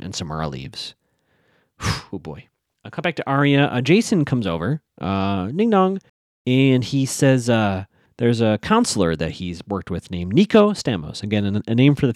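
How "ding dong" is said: high singsong ding dong; doorbell imitation. Recapper imitating a doorbell as a visitor comes over, singsong. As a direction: chime it like a doorbell.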